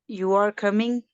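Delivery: "You are coming?" rising at the end as a question; question tune. Shown as a demonstration. Student checking the teacher's point, rising question tune on "coming". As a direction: let "coming" climb to ask. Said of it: "the question way".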